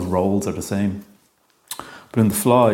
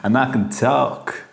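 slow, stretched PA announcement with a laugh in it; mock store PA announcement, gleeful; over the store microphone; 4 semitones higher, slower than usual. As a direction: boom it out over the tannoy, slowly. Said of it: "go into one of the microphones and be like".

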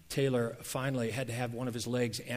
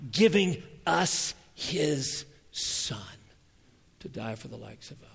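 hushed, slow whisper; awed whisper of the gift; 6 dB louder, slower than usual. Acted. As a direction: drop to a whisper for the key words. Climax of the sermon point.

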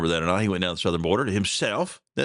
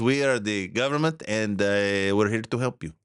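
mocking misquote. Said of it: "No, that's not what he said".

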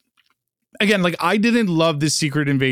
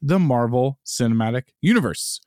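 grand entrance announcement. Acted. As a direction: welcome the crowd like a ring announcer. Podcast intro over music.

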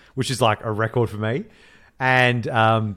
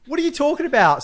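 rising outraged what are you talking about; indignant disbelief. Retold or imitated. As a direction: act baffled and offended. Indignant retort in retold scene.

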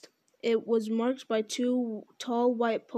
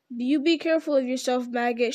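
calling out; 3 dB louder than usual. Acted. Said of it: "she called".

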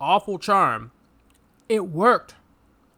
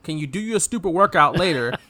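voicing Samantha. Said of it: "She just said".

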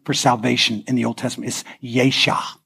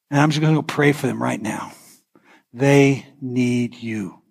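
prayer. Acted. Prays over the congregation.

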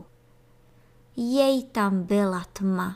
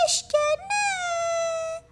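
put-on very high, slow squeak like a baby; tiny baby voice; much slower than usual. A narrator's reading. Beetle posing as a baby bee. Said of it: "tenkým hláskem jako nějaké miminko".

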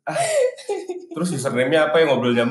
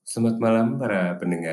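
late-night radio host; 3 dB quieter than usual. Shown as a demonstration. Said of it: "Oh, kayak gini ya".

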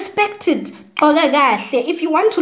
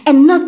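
not hit much louder; stress on not; 4 semitones higher, 8 dB louder than usual. Real, not acted. Telling viewers women must cover up, punching "not". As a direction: lean hard into "not". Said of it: "her own point, stress on not".

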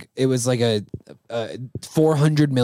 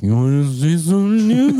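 tweaker voice; 6 semitones higher, 4 dB louder than usual. Retold or imitated. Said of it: "she's like".

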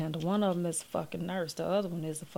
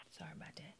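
hushed apology; 24 dB quieter, faster than usual. Real, not acted. Apology after yelling.

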